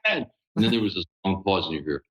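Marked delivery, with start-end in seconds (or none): 0.0-0.3 retold demo of the Batman line, loosely voiced; a hint of the dark knight, rising on the last line; proving it to the relief workers in a light Batman voice. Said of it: "I did that voice".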